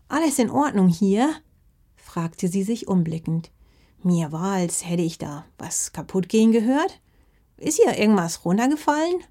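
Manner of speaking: a lightly voiced granny checking on a crash; worried grandma. (leicht gespielte besorgte Oma)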